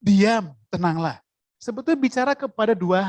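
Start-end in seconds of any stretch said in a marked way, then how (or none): 0.0-1.2 slow, steady calming command; Jesus calmly ordering the storm to be still. Retold or imitated. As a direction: still the storm slowly and firmly. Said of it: "Yesus berkata di sana".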